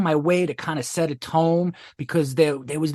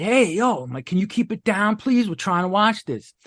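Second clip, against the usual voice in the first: higher-pitched appeal to keep it down; retold annoyed request; 5 semitones higher than usual. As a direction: call over, politely insistent, pitch lifted. Asks loud talker to quiet down.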